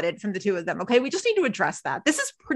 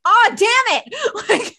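slow, higher, louder mock groan; drawn-out exasperation; 9 semitones higher, 6 dB louder, much slower than usual. Imitating Jessica's exasperation at the collapse, slow and loud. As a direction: stretch it out like a fed-up coworker. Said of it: "Jessica's like".

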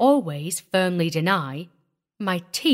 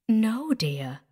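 very gentle; 3 semitones higher than usual. A narrator's reading. Hetty reassures the young wife, very gently. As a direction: answer her as gently as you can. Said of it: "in the gentlest voice I have ever heard".

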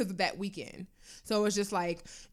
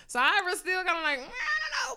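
laughing; 8 semitones higher than usual. Real, not acted. Laughing while retelling her reaction.

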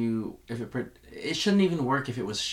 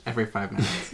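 ordinary talk, nothing marked

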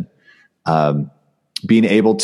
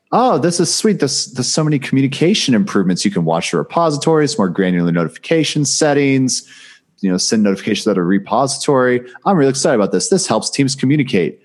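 excited; 6 semitones higher than usual. Retold or imitated. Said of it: "I'm like".

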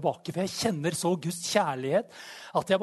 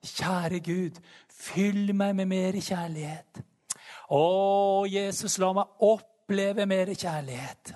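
imitated prayer; 4 semitones higher, slower than usual. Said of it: "gikk jo mange år og ba".

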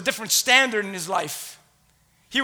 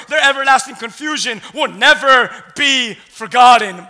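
forceful, punched phrases; impassioned scripture preaching; 3 semitones higher, 5 dB louder than usual. A narrator's reading. Preacher voices Jeremiah unable to hold back, impassioned. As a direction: preach it with mounting urgency.

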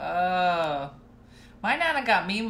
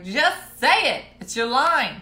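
coaxing grandma; 5 semitones higher, 9 dB louder, slower than usual. Retold or imitated.

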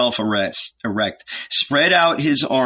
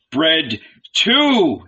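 sighing; 6 semitones higher, 4 dB louder than usual. A narrator's reading.

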